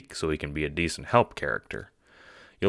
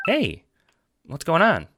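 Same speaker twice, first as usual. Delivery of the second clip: put-on much higher, eager young John; 13 semitones higher, 5 dB louder than usual. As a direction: pitch way up as the cheerful friend. John greeting Dave.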